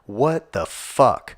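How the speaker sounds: drawn out, slow and incredulous; stunned, slowed-down what the fuck; slow disbelief. Real, not acted. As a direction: let each word hang in disbelief. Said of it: "repeated outburst".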